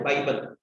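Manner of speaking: बाइबल dropped low with a falling tune; stressed repeat. Real, not acted. Teacher to students, calling the notes their बाइबल, low and weighty. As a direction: lean on बाइबल, low and final. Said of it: "इसको बाइबल मान के चलो".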